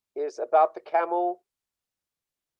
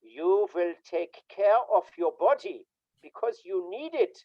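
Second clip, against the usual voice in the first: stern father; 3 semitones higher than usual. Retold or imitated. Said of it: "he said".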